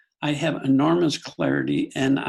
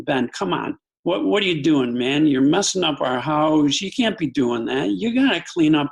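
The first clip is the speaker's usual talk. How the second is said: annoyed; 3 dB louder than usual. Retold or imitated. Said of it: "talk to him with a little bit of annoyance".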